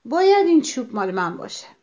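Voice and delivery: understated storyteller's shout; crying out. A narrator's reading. Hedgehog claiming the stick, crying out. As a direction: punch the opening, then ease off. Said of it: "با این فکر فریاد زد".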